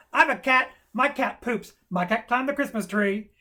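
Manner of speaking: lightly voiced eager kindergartner; chiming-in kindergartner. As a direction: blurt it out like a small kid. Acting out eager kindergartners blurting answers.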